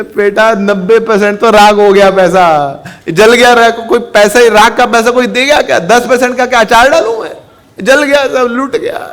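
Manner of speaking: high, loud, tearful complaint; crying lament. Acted. Weeping father tells his son of the loss, lamenting. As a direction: wail the losses in mock despair. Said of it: "आप रो क्यों रहे हैं".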